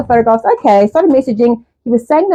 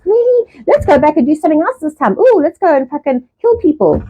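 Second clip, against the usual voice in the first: sarcastic self-quote; 6 semitones higher than usual. Retold or imitated. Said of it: "I'm like".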